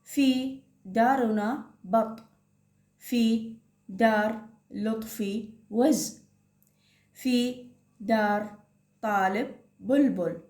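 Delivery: slow, careful reading to first graders; teacher modelling slow reading to a class; slow reading aloud. Shown as a demonstration. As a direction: read the passage word by word for children to follow. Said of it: "طارق يقول".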